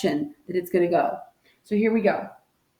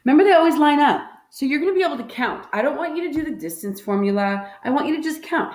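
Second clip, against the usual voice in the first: emphatic; 6 semitones higher, faster than usual. Real, not acted. Teacher stresses key rule.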